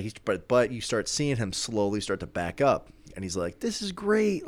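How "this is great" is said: high, pleased villain voice, jumping way up; a smug vampire faking delight; mock Dracula voice. Dracula voiced again, nervous.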